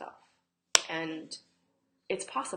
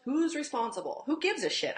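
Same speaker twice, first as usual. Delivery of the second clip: exasperated; 6 semitones higher, 7 dB louder than usual. Real, not acted. Dismissing the blame voice.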